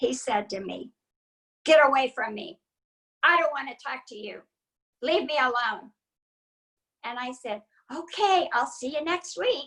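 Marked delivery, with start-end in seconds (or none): 1.6-5.9 nastiest, loudest, mean bark. The speaker retells what Larry said when she introduced herself; retelling Larry's mean, loud yell. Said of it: "in the meanest, loudest voice".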